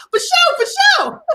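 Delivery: awkward try at sounding hip; trying to sound cool. Pretend. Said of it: "I'm trying to get the moment back".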